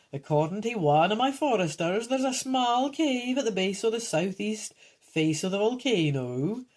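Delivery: lightly voiced old man character; a hint of an old storyteller; old geezer. Old man tells of a cave, lightly voiced old geezer. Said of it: "the old man informs you".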